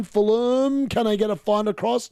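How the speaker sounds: team name called high and drawn out; rising hope in live commentary; excited anticipation. Real, not acted. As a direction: stretch the name as the attack builds. Urging on a developing Fulham attack.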